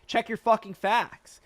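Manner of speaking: real heated outburst, near yelling; fired-up rant. Real, not acted. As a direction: let it boil over at the Tesla doubters. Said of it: "I'm not yelling at you".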